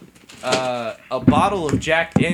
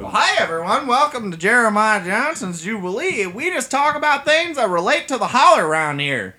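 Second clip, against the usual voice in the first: hillbilly host; 3 semitones higher than usual. Acted. Plays hillbilly host Jeremiah.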